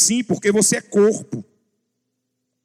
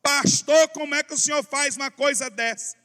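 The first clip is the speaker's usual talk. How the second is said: raised, indignant church sister; mock loud complaint; 5 semitones higher than usual. Church sister scolds the pastor loudly, mild mock. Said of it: "chega a irmã falando alto".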